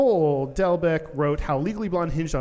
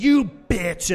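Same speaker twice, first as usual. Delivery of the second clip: mild mock angry; 3 semitones higher, 5 dB louder than usual. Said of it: "Chuck stands up and says".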